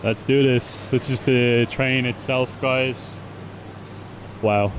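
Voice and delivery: loud and excited. Real, not acted. Boarding the train, thrilled.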